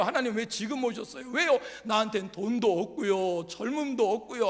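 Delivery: 투덜대는 모세. Acted. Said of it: "라고 투덜거리는 모세의".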